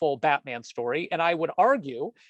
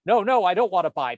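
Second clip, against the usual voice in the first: louder, pressing no, no into the phone; insistent refusal; 3 semitones higher, 6 dB louder than usual. Acted. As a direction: push the refusal firmly down the line. Cartoon man on phone.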